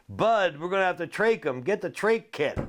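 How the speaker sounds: high, fast urgent order; mock urgent trainer; lightly voiced trainer calling for the kit; quoting the trainer. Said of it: "Eddie says to Bud".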